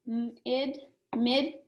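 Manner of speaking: mid drawn out slowly; slow syllable. Shown as a demonstration. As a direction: take the first syllable slowly. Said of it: "Here's a multisyllabic word".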